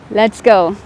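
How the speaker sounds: loud, pumped-up start; rally yourself before the run; excited. Real, not acted.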